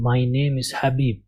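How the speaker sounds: "My name is حبیب" read slowly as the right version; slow model reading; correct pronunciation. Shown as a demonstration. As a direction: show the right way, slow and clear. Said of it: "صحیح pronunciation ہوگا".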